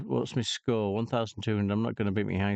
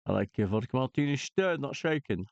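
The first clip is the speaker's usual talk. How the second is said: quick Scottish Bond accent, swapped order; lightly voiced Sean Connery; mild Scottish James Bond voice; Sean Connery impression; faster than usual. Shown as a demonstration. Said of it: "that thing that I just said about the martini".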